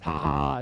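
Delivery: spelled-out mocking "ha, ha, ha"; mock laughter. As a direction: fake a laugh at someone's expense. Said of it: "laughs at you and says".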